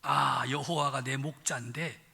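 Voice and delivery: a lightly voiced Pyongan northern dialect, chatty and blunt. Pastor playing the Pyongan version of the psalm, in Pyongan dialect. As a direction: give the psalm a folksy Pyongan twang. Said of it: "평안도 버전은 어떻게 됐나?".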